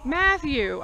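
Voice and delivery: high, slow call across the yard. Retold or imitated. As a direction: stretch his name out like calling him from afar. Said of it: "I'm just yelling".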